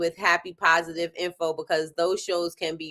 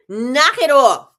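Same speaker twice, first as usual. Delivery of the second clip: laughing scold; 5 semitones higher, 10 dB louder, slower than usual. Retold or imitated. Mock scolding son, laughing.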